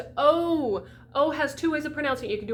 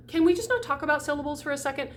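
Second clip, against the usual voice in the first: sigh, then quicker and higher protest; exasperated; 4 semitones higher, faster than usual. Acted. Teacher fed up with confusing dictionaries, exasperated. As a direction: plead impatiently after a sigh. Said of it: "it's like".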